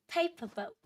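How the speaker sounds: put-on high, cute baby-talk voice; cutesy baby voice. Shown as a demonstration. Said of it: "we're trying to say it in a cute way".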